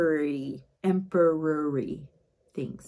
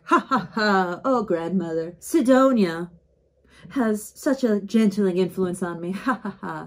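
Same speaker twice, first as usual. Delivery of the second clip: forced laugh; 3 dB louder than usual. Retold or imitated. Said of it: "Tyrus is like".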